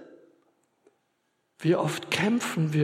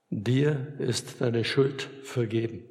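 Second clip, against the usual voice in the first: solemn absolution; 3 semitones lower, 3 dB quieter, slower than usual. Acted. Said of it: "Und zweitens".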